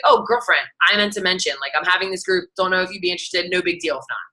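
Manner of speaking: breezy, offhand invite read; super casual invite. Shown as a demonstration. Coach showing a casual invite, breezy and offhand. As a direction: toss it off like chatting a friend. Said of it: "Make it super casual".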